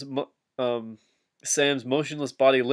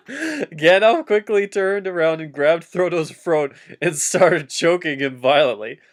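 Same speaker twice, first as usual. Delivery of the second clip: laughing read; 3 semitones higher than usual. Acted. Rereading the line more dramatically.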